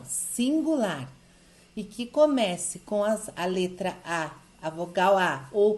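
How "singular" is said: singular drawn out slowly and stressed; stressed for attention. Shown as a demonstration. Teacher slowly stresses singular for the class. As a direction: lean on singular so students notice. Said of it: "presta bem atenção".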